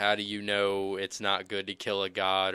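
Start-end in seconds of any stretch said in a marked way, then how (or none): none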